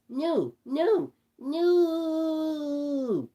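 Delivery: shouted no. A narrator's reading. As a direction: Patrick begging for his life, a hammed-up high shout. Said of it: "Patrick shouted".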